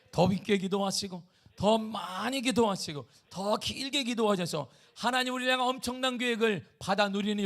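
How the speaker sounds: loud, high, driving sermon voice; forceful preaching. Acted. Pastor urging the congregation to pray, full preaching force.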